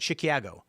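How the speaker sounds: "Chicago" said as shi-kee-AA-go; mock pronunciation. Shown as a demonstration. Chicagoan insisting nobody says it, "Chicago" as shi-KYAA-go. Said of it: "Nobody said".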